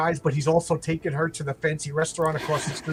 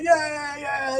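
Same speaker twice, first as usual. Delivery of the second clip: high, cheering sports fans; husband and friends cheer the game, high and excited; sitcom fan cheer; 10 semitones higher, much slower than usual. Retold or imitated. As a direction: whoop it up like a fan on the couch.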